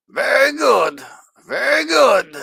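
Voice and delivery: put-on high, loud gypsy accent yell; gypsy shout. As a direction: belt it out like a gypsy showman. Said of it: "overdoing it on the gypsy voice".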